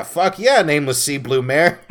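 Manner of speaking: excited cheer. Real, not acted. Cheering the mare.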